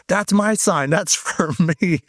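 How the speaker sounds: high-pitched, delighted claim, slowing on the last words; excited imitation. Friend spots her own sign from the car, excited. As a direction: mimic a thrilled friend, voice jumping up.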